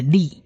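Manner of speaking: "li" with a short ee vowel; pronunciation demo. Shown as a demonstration. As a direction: model "li" as a blended syllable. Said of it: "是短母音e".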